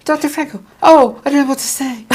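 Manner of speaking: high, loud starstruck gushing; chipmunk voice. Retold or imitated. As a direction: squeal it out, starstruck. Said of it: "I sound like a chipmunk".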